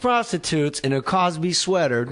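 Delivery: mock entertainment-show announcer plugging a scoop; Mario Lopez. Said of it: "Mario Lopez at the Grove is gonna go".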